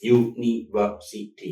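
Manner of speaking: university stretched out very slowly; university slowly, syllable by syllable; slowed into syllables. Shown as a demonstration. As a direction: drag out each beat. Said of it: "five syllables".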